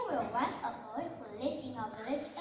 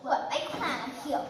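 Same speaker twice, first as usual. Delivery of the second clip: annoyed villagers; 8 dB louder than usual. Acted. Villagers refuse the boy.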